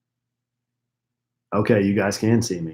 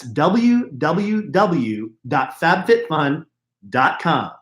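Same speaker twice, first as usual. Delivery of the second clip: w w w dot fab fit fun said even slower, each word separate; slower repeat of URL; 4 semitones higher, much slower than usual. Shown as a demonstration.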